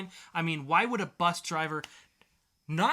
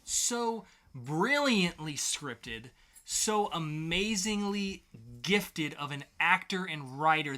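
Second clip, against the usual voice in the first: mock praise; slower than usual. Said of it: "so masterfully acted".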